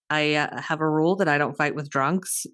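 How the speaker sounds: understated, composed retelling; calm refusal. Retold or imitated. Guest declines a drunk brother's challenge to fight, calm. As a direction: lightly imitate someone calmly declining a fight. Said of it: "Chris very calmly is like".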